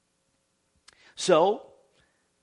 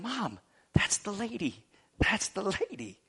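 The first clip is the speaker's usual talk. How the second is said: higher-pitched, lightly voiced excited child; little boy; 4 semitones higher, 4 dB quieter than usual. Little boy telling his mom he spotted the lady, lightly imitated child voice.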